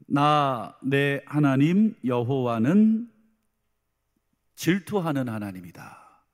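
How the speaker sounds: slow, weighty divine proclamation, lightly voiced; God's declaration. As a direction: open firmly and loud, then settle as you declare it. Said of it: "하나님이 이런 말씀을 하십니다". (하나님 말씀을 천천히 선포하듯)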